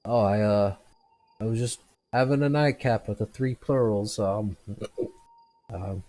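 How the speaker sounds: chuckling through a tipsy boast about the tavern; tipsy drunk. Acted. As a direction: drunk man tells the stranger where he drank, giggling. Drunk figure voiced by GM.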